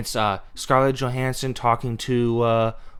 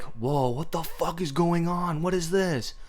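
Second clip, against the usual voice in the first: mock surprise; 5 semitones higher than usual. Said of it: "you're like".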